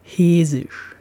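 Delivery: "Hesisch" in a Hessian accent with short E and voiced S; Hessian dialect. Shown as a demonstration. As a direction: say "Hesisch" like a local from Hesse. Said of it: "weil das E sonst lang ausgesprochen würde".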